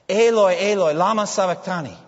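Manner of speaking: high, anguished-prayer cry; loud crying out. Retold or imitated. Jesus cries out to God from the cross, in a loud voice. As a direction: cry it out at full voice. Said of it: "in a loud voice he will cry out".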